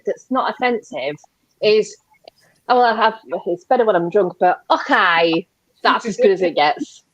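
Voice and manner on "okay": slow, drawn-out Scottish catchphrase; Scottish accent. Shown as a demonstration. Guest trying a Scottish accent on request, drawn-out Scottish. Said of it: "A Scottish accent".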